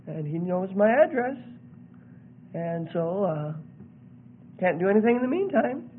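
soft, halting, uh-filled answer; mock a complacent believer, trailing along; hesitant and quietly vague; passive waiting believer. Passive believer answers what God will do.

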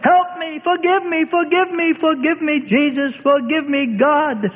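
high, anguished outcry; bitterly weeping. A narrator's reading. Peter begging forgiveness for his denial, anguished. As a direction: plead and lament high up, in despair. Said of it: "And Peter wept bitterly".

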